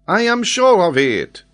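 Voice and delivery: put-on high, loud French-accented assertion; insistent French geographer. Geographer answers Glenarvan's doubt, insistent. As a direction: insist with total certainty.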